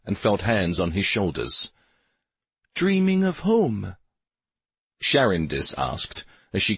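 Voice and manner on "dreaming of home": lightly voiced tender woman, slow and raised in pitch; warm woman's voice. A narrator's reading. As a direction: ask it with gentle warmth, drawn out. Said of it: "her voice a lovely, warm contralto".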